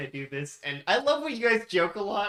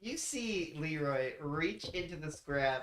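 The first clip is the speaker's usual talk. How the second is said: slow, measured scene-setting with pauses; game master narration; 5 dB quieter, slower than usual. Acted. Game master describes Leroy's throw to players, slow narration. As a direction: narrate it slowly, pausing for suspense.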